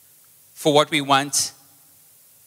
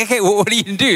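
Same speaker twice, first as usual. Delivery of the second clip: high, louder bewildered call; retold bewilderment; 9 semitones higher, 5 dB louder, much faster than usual. Pastor calls after friend rushing to his car, bewildered. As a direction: re-enact calling after someone rushing off.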